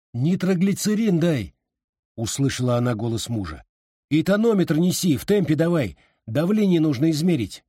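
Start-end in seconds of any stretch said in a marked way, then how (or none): 0.1-1.5 urgent order. A narrator's reading. Husband orders from other room. 4.1-7.6 urgent orders. A narrator's reading. Husband giving urgent orders.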